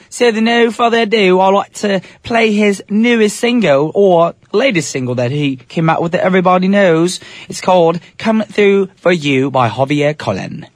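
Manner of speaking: put-on London Cockney DJ; Cockney accent. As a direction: introduce the single in mock Cockney. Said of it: "That Cockney accent cracks me up".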